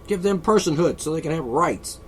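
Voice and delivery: mocking opponents. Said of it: "they want it".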